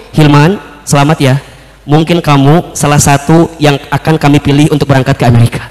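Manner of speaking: low, measured, gentle delivery; interviewer's congratulations. Retold or imitated. Interviewer telling the candidate he may be chosen, low and gentle. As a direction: break the good news gently, pitched low. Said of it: "Kata kakak itu".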